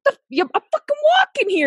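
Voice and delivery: retold "hey, watch it" outburst; mock indignant yell. Retelling outburst at driver.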